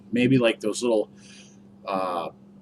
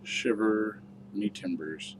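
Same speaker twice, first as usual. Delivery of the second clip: slow, soft pirate drawl; 7 dB quieter, much slower than usual. Pretend. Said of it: "There it is".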